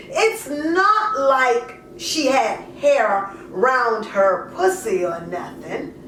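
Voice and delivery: lightly voiced mother justifying herself, conversational; poem in character. A mother explains giving up her daughter, lightly in character. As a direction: speak it as the mother, half confessing, half defending.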